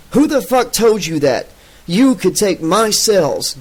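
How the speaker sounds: high, slow furious demand; a hissy fit, shrilling it. Acted. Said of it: "Gottman demanded somewhat shrilly".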